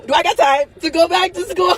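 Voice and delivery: a sobbing question, close to tears; tearful plea. Real, not acted. Venting to viewers, voice cracking with tears. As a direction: voice high and breaking with tears.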